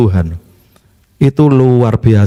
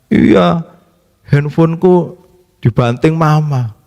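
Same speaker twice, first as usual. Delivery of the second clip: imitated tearful child; slower than usual. Child telling dad mama smashed the phone, mock tearful. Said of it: "dia nangis-nangis".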